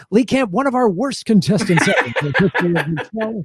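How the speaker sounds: lightly put-on announcer; game show host razzing a contestant. Host introducing his worst contestant, game show voice. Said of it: "when you do the game show voice".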